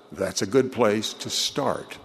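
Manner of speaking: slow, with start pressed firmly; stress on start. Retold or imitated. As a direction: lean on the word start, slowly. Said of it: "with the emphasis on the word start".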